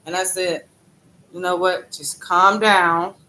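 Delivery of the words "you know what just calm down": calming myself. Retold or imitated. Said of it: "I'm just talking to myself".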